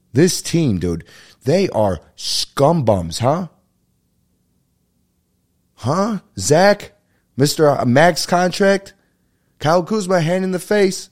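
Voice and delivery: high, loud mocking outburst at the team; exasperated sports rant. Real, not acted. Fed-up fan ranting at his team, high and loud. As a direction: scoff at the players by name, pitch soaring.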